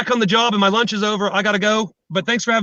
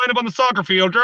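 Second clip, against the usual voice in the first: bullhorn announcement at a school field day; imitated bullhorn. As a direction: mimic a muffled megaphone order. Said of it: "Bullhorns sound terrible".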